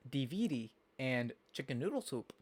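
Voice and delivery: imitated Minnesota pronunciation of "D V D" and "chicken noodle soup"; grandma's Minnesota accent. Quoting grandmother in Minnesota, lightly imitated Minnesota accent. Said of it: "she says funny".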